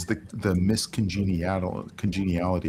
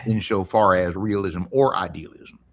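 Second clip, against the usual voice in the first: Kentucky accent. Shown as a demonstration. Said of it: "So that is my Kentucky accent".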